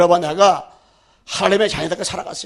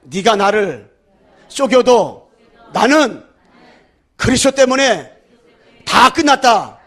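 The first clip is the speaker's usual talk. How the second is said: louder, rising defiant declaration to the devil; leading a declaration; 4 dB louder, slower than usual. Shown as a demonstration. Preacher leads congregation defying the devil, loud. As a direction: call it out for all to repeat. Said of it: "한번 따라하세요".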